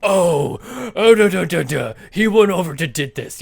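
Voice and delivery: loud, dopey mock oaf; oafish voice. Mom mocking someone who did something stupid, oafish voice. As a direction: open on a big booming "oh" and blunder on. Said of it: "like, really oafish".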